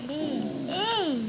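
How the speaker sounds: humming with jaw propped open; dental tool in mouth. Real, not acted. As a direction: mouth held open by dentist. Seen 0: Gloved hands hold a tool in her open mouth throughout.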